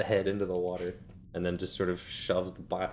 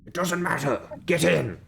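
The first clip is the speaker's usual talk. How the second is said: impatient shout; 9 semitones higher, 4 dB louder than usual. Acted. DM voices impatient figure.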